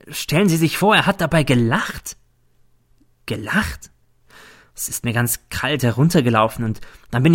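lightly voiced, lively indignant woman; indignant Nelly. Narrator plays Nelly telling her tale. (leicht gespielte, empörte Nelly)

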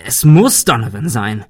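cursing. Acted. The notary cursing to the group, angry. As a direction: spit it out as a curse. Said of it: "fluchte er".

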